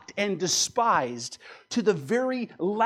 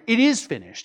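emphatic quote; 4 semitones higher, 6 dB louder than usual. Retold or imitated. Preacher insists he does say it.

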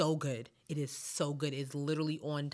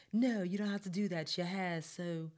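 put-on British accent. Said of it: "What is up with this British accent?".

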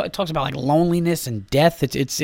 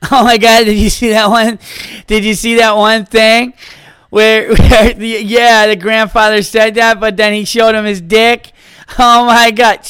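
giggly, louder, higher office gossip; whispered laugh turning into excited gossip; giddy coworker; 4 semitones higher, 5 dB louder than usual. Pretend.

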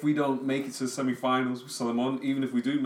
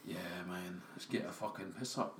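attempted Irish accent; 5 semitones lower, 14 dB quieter than usual. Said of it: "No, that's Scot-, that's Scottish".

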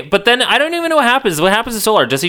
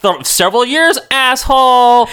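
mock indignant retort; 5 semitones higher than usual. Acted retort to Watchdog's heroic line.

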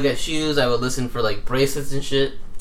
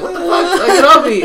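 higher, louder outrage; mock angry shout; 9 dB louder than usual. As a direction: yell at the manager. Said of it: "And she's like".

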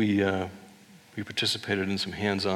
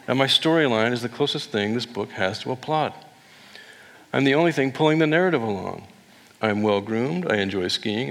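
voicing the red dog; 2 semitones higher than usual. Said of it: "kind of speaking for the red dog".

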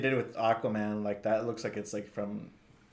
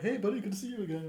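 friendly greeting; 8 semitones higher, 5 dB quieter, much faster than usual. Retold or imitated. Cosplayer's greeting retold.

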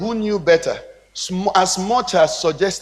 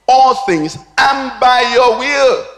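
slow, drawn-out preacher's declamation; emphatic scripture reading; 5 semitones higher, 5 dB louder, slower than usual. Acted. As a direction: proclaim the verse, stretching key words. Reads verse out forcefully.

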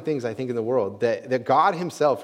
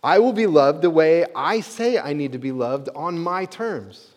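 bossy demand; 2 semitones higher, 5 dB louder than usual. Retold or imitated. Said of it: "super bossy and saying".

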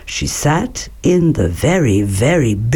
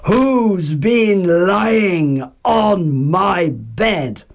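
mild mock roar; 3 semitones higher, much slower than usual. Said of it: "and roared".

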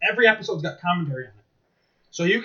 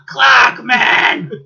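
louder, higher yell of the phrase; higher shouted catchphrase; 7 semitones higher, 11 dB louder than usual. Retold or imitated. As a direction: push it up and shout.

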